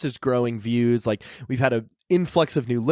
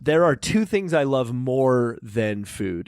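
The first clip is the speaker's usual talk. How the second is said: slow, deliberate mock announcer; old radio voice; slower than usual. Host declaring two loves to listeners, slow radio announcer. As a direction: draw it out like old-time radio.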